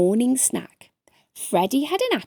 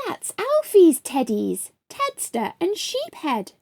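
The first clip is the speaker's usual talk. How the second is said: awed breath; 7 semitones higher than usual. A narrator's reading. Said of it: "breathed Daniel in awe".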